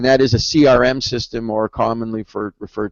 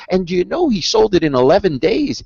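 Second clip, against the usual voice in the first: imitating an excited girl, raised pitch; excited child; 6 semitones higher than usual. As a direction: retell the niece's eager question. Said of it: "with all this enthusiasm and passion".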